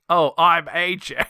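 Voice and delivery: slow, slightly hammed-up mock impression. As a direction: lightly imitate a bad impressionist, drawn out. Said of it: "that's her fucking impression for everyone".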